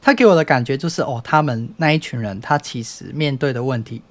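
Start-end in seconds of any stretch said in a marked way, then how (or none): 2.4-4.0 a burp breaks into the words; speaking through a hiccup-like burp; talking while burping. Real, not acted. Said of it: "打了嗝".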